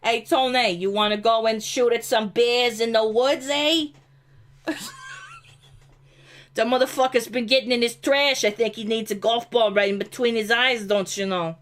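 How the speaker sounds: hammed-up Pennsyltucky redneck, lightly voiced; rednecky Pennsyltucky accent. Mocking her neighbors in a Pennsyltucky redneck accent. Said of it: "It's what it's like living in my area".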